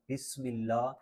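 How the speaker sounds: "بسم" with a light whistling s; lightly whistled seen. Shown as a demonstration. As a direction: let the s in "بسم" hiss lightly. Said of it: "سین میں ہلکی سی سیٹی کی آواز".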